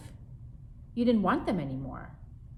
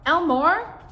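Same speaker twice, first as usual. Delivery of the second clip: high, loud cry for help; exasperated call; 11 semitones higher, 12 dB louder than usual. Acted. Mother appealing to her husband, high and loud. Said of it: "she glared at my father".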